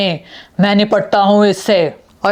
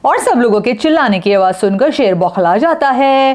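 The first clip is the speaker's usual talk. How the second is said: story narration; 5 semitones higher than usual. A narrator's reading.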